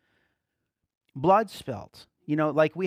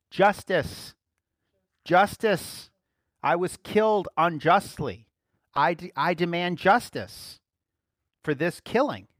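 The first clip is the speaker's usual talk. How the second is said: blood crying for justice; 2 semitones higher, 5 dB louder, slower than usual. Acted.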